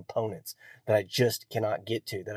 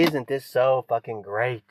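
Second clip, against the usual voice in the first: mock preacher gush; 3 semitones higher, 7 dB louder than usual. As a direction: overblown fake delight, ending in a squeal. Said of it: "for everyone to watch and say".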